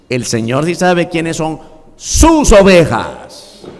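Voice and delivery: ordinary talk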